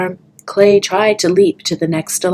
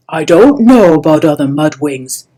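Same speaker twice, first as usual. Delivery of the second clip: protesting; 2 semitones lower, 7 dB louder than usual. Acted. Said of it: "he protested".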